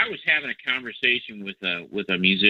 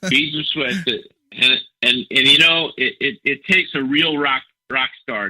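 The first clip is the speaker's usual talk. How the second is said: sarcastic; 4 semitones higher, 5 dB louder than usual. Acted. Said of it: "I'm being completely sarcastic".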